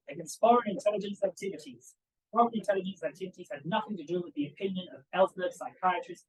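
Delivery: attempted Southern accent. Lecturer quoting a senator to the audience, light Southern accent. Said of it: "try and do the Southern accent".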